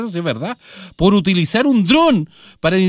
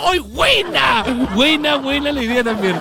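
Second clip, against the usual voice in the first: mock applause; 5 semitones higher than usual. Host voices deputies applauding.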